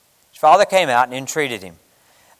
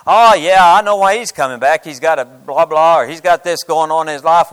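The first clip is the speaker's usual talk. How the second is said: sneering, knowing judgment; mock the suspicious churchgoer; a loud scoff of a judging brother; judgmental; 2 semitones higher, 6 dB louder than usual. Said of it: "or is it judgmental?".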